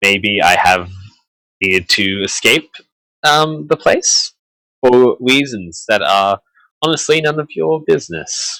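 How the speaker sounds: sheepish, embarrassed, slightly awkward tone. Voicing a character explaining why he had to escape: sheepish in character. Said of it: "He says kind of sheepishly".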